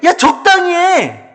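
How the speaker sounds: high, drawn-out exasperated call; acted scornful nagging; worldly discouraging. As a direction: tell a zealot to ease off. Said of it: "세상이 우리에게".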